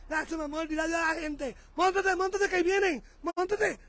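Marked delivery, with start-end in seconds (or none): 1.8-3.8 higher, quick urgent urging; hurried urging. Real, not acted. Husband rushing wife into the car, hurried urging. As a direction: hurry her into the car.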